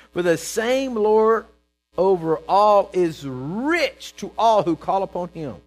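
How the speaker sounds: loud, high, drawn-out preaching; exultant proclamation. Real, not acted. Preacher repeats scripture for the congregation, full-force proclamation. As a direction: belt out the verse slowly.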